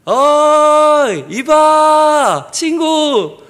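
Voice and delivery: high, long-drawn holler to a friend; acted smug long-distance call. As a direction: hail someone far across the water, stretching every word. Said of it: "속으로 껄껄껄 웃으면서 이 친구가".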